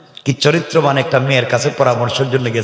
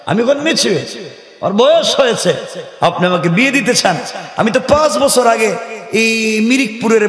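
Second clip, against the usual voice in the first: high, sassy mock of a brazen daughter answering her father; mocking modern daughter; 6 semitones higher than usual. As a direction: lift the voice high and play the cheeky girl. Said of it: "আমাদের দেশের মেয়েরা কি বলবে?".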